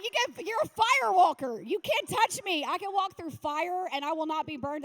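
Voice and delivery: loud, high mock boast; triumphaler Übermut.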